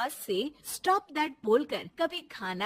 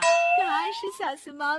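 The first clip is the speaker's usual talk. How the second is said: wistful wish; 8 dB louder, slower than usual. Acted. Bahu wistful longing.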